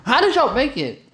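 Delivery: high squeaky mock of his question. Mocking a friend's question in a high silly voice. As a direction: parrot him back in a silly high voice.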